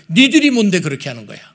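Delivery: loud indignant challenge; acted rebuke. God stepping in against Babylon for his people, acted rebuke. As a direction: rebuke them, pouncing on the first words.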